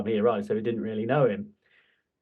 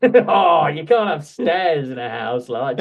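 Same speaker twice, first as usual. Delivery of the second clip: put-on French accent; 3 semitones higher, 6 dB louder, slower than usual. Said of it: "I'm doing a French accent here for Patrice Evra".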